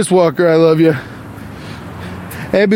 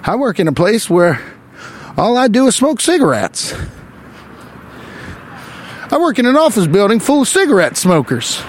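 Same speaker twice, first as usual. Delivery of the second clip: higher mock old-timey gangster, see; hammed-up 1920s newsroom tough guy; 1920s dapper man; 5 semitones higher than usual. Comic playing a 1920s husband, hammed-up gangster voice.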